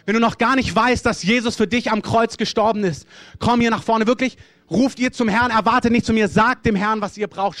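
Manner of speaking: full-voiced invitation to the front; forceful altar call. Real, not acted. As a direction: press them to come forward now.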